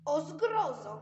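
loud dramatic cry; exclaiming. Acted. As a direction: call it out in horror. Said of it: "zawołała Pipi".

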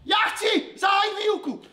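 fed-up teacher snapping; exasperated shout. Acted. Teacher loses patience with class.

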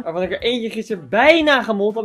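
"bijna" punched out within the sentence; stress on BIJNA. Real, not acted. Vlogger admitting he nearly wrecked a screen, stressing "bijna". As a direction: lean hard on the word "bijna". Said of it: "Met de nadruk op bijna".

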